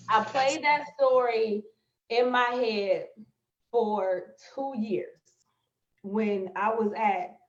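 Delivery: slow, halting, choked with emotion. Real, not acted. Remembering her lowest point on camera, choked up. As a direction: hold back tears between words. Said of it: "I feel like I'm about to cry".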